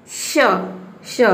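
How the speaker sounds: "श" said alone as a hushing sh; "sh" sound. Shown as a demonstration. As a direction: sound out "श" by itself, with a pause after. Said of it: "इसको बोलेंगे थोड़ा".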